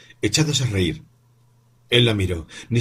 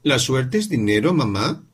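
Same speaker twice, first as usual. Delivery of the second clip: con timidez; 5 semitones higher than usual. Acted. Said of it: "con cierta timidez".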